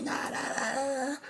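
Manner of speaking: high-pitched nonsense imitation of yelling; softened "na, na" rant, pitched high; mock yelling. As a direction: mimic someone yelling, without real volume. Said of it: "me dicen algo así gritando".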